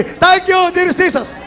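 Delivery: high, ringing model shout; strong shout of thanks. Shown as a demonstration. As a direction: call it out for the crowd to copy. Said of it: "Yung malakas talaga na".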